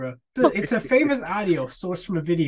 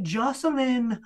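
lightly mocked Canadian accent, higher pitch; a singer, Canadian accent; 5 semitones higher, slower than usual. Host mocking the singer's undisguised accent, Canadian accent impression. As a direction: put on a teasing Canadian accent. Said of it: "does not try to cover up his Canadian accent".

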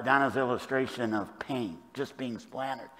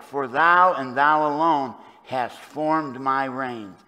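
slow, weighty stress on each "thou"; emphatic thou; 4 semitones higher, 10 dB louder, slower than usual. Shown as a demonstration. Preacher reading the verse to the congregation, slow and emphatic. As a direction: lean hard on "thou and thou alone". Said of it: "it's abrupt, it's emphatic".

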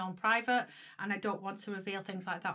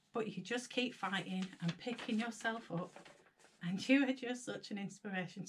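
reading through tears; 2 semitones lower, 3 dB quieter than usual. Real, not acted. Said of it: "Sorry, guys".

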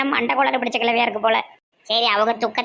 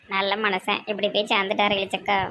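as if smiling; 4 semitones lower, 3 dB quieter than usual. Acted. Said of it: "நீ ஏன்டி சிரிச்ச மாதிரி சொல்லுத?".

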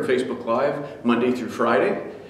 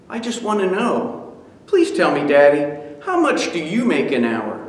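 put-on higher, begging child voice; pleading boy; 3 semitones higher than usual. Son pleading with his father, childish plea. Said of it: "pleaded the little boy".

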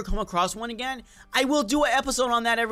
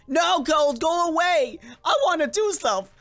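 mock whine at cold; 5 semitones higher than usual. Real, not acted. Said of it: "I still can't do all my voices".

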